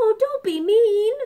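very high, loud, snuffly sniffling voice. Narrator reads a character answering the three little pigs, sniffling. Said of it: "sniffled Big Bad".

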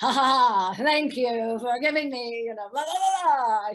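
loud, gloating villain laugh.

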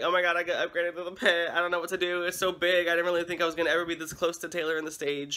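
mock excited panic, rushed, words tumbling out. Retelling posting on Instagram after an upgrade to the pit: imitating own freaking out. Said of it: "I'm freaking out".

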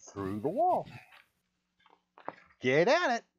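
very high, grating, swooping, bestial hag voice. Game master voices the bestial hags answering the party; horrible hag voice. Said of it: "They look like bestial hags. ... Your voice is horrible to listen to".

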